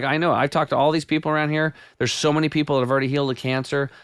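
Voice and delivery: like you just found the answer to everything; excited retelling. Retold or imitated. Excited retold quote to friend.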